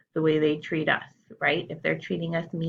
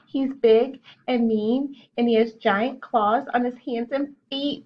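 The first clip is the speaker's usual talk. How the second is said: high, louder frightened wail; 5 semitones higher, 4 dB louder than usual. Acted. Best friend wailing to mother about bully, frightened. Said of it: "wailed Cassie".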